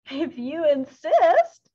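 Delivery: high, loud, slow and eerie; sly predator accepting; hyena voice. A narrator's reading. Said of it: "said the hyena".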